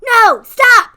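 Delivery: high, loud protest; mock outraged yell. Wife protesting husband stealing her tweet, loud high yell. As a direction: yell it like your idea is being stolen. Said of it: "and I'm like".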